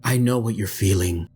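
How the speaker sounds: low, menacing, ending in a whisper; sinister Omis. Acted. Low, menacing Omis luring Floor, whispered at the end. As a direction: draw him in, then whisper the last line. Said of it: "And he says".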